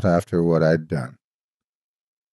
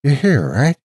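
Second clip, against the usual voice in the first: raised, higher call into the dark room; boy calling out to an unseen ghost, raised and higher; 6 semitones higher, 4 dB louder than usual. Retold or imitated. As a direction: call out unsure, louder and higher. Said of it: "called out to me".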